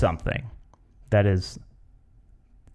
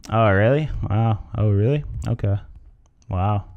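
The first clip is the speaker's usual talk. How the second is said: token reactions, barely invested; faked interest. Shown as a demonstration. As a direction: feign interest in someone's story. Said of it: "Just like a faked".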